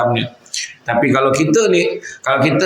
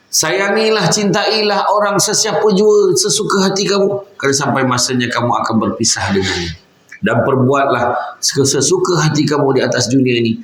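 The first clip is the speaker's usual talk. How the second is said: solemn preaching. Acted. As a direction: lift each phrase and stretch it like a warning. Preacher voicing Jibril's solemn advice.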